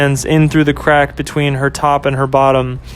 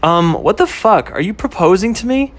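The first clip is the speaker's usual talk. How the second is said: put-on higher, startled girlfriend voice; taken aback, pitched up; girlfriend Ashley; 5 semitones higher than usual. Girlfriend shocked at sudden proposal, higher and startled.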